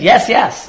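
both yeses pressed down with a falling tune; a firm "Yes, yes" as if swearing to it; emphatic yes. Retold or imitated. Teacher acting out an emphatic oath, firm. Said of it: "he emphatically says".

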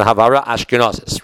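"Ashkenazis" as Ashke-NAW-sis; Ashkenazi pronunciation. Shown as a demonstration. Teacher illustrating how they daven, "Ashkenazis" in Ashkenazi pronunciation. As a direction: say "Ashkenazis" with an aw vowel and final s. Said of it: "They'll pronounce words like".

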